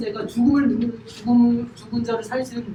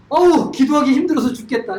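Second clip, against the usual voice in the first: mock complaining sigh; 2 semitones higher, 7 dB louder than usual. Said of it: "이 말이 됩니까?".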